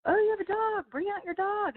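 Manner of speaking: sing-song it like a jolly boss at dinner; lightly voiced eager host; cheery boss. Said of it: "the guy's like".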